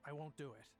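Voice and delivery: calm, restrained refusal; kinda calm. Acted. Inside man refusing to betray a friend, kinda calm. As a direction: refuse steadily, without raising the voice. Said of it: "his voice is, like, kinda calm".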